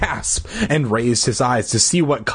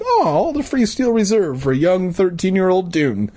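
gleeful; 7 semitones higher than usual. Retold or imitated. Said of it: "I'd be like".

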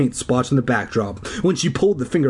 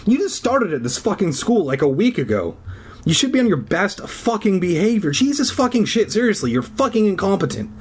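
mock angry; 7 semitones higher than usual. Teacher insulting Brian.

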